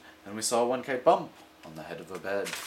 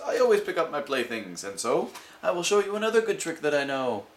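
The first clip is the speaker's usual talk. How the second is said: showman cat; 5 semitones higher, 3 dB louder than usual. Acted.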